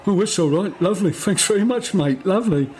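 mock-cheerful, as if it's good news; cheery condemned man. Condemned man cheerfully thanking his executioner, lightly voiced.

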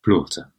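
"Blaughter" squashed into one word; mimicked mispronunciation. Co-host echoing the speaker's attempt, mimicked "Blaughter". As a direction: echo "Blaughter" with a careful T, mockingly. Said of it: "you sound like a, um, uh, Duolingo tape".

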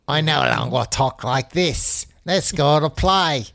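hammed-up, affected posh accent. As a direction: put on a posh princess voice. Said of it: "She sounds posh now".

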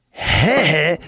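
high, loud, relieved interjection; calling out. A narrator's reading. Frank interrupting Simon's story, calling out. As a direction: burst in on the storyteller. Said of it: "riep Frank".

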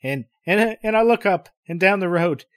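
ordinary delivery

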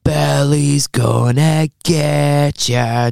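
drawn-out ominous advert line; slow advert voice. Retold or imitated. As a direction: stretch it slowly like the ad. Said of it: "Do you remember that?".

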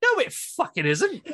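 high, slow exasperated protest. Retold or imitated. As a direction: drag it out, totally fed up. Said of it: "And I'm just like".

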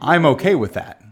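laughing imitation. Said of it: "in the way that you say it".

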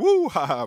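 loud "woo" followed by "ha, ha"; whooped buzz-in catchphrase. Shown as a demonstration. Player redoing the buzz-in as it should have been, playful whoop. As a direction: whoop it out with a laugh. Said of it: "that's what it should have been".

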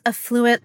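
affluent said uh-FLOO-ent; affluent, second-syllable stress. Shown as a demonstration. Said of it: "like, Old English".

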